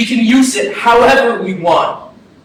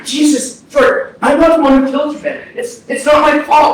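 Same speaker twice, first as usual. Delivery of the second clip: defensive outburst; 4 semitones higher than usual. Acted. Brother defends himself in argument.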